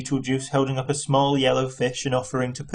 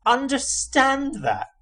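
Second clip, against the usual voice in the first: high, slow, outraged repeat; shouted again; 12 semitones higher, slower than usual. A narrator's reading. Arthur repeating Ford's words at him, a slow high shout. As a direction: hammer the question back even slower. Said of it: "shouted Arthur".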